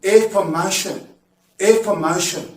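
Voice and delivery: careful teacher's affirmation; teacher's model word. Shown as a demonstration. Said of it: "into a noun".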